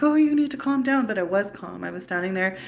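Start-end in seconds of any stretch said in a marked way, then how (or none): 0.0-1.1 mock patronizing. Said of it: "and they're like".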